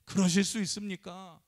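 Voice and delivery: a man confronting Jesus in mild mock anger; complaining to Jesus about starving, mildly aggrieved; retold angry complaint. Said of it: "화가 나가지고 따지면서".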